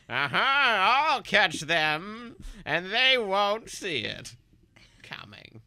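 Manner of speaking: high, slow scheming villain. Acted. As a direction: cackle it out like a cartoon villain. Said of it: "mayor of Stringtown".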